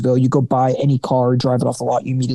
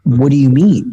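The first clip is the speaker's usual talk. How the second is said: louder, baffled rising question; mock disbelief; 5 dB louder than usual. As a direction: act out being taken aback by a client. Acting out his baffled reply to clients.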